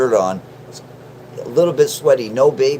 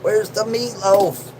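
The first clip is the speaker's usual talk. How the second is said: mock yell for meatloaf, higher and slower; retold scream; 7 semitones higher, slower than usual. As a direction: call out for the meatloaf in a hammed-up whine. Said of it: "It's like screaming".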